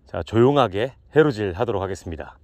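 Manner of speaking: low, smooth and restrained intro; slightly cheesy smooth. Pretend. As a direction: keep it low and a little greasy. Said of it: "오늘은 살짝 느끼하게 시작합니다".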